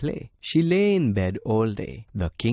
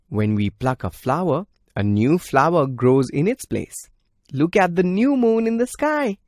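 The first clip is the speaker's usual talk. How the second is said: put-on happy child; 7 semitones higher, 5 dB louder than usual. Princess happily explains new moon.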